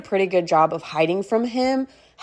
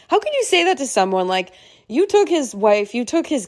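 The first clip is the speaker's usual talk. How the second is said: incredulous outburst; 5 semitones higher than usual. Real, not acted. To the partner who said she hadn't found the one, indignant disbelief. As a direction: pitch shoots way up, fast, in disbelief. Outraged at a hurtful remark.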